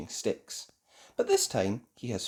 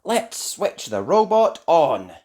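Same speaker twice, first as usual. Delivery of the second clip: put-on slow eager elf boy; lightly voiced eager boy; 4 semitones higher, 8 dB louder, slower than usual. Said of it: "says Ben".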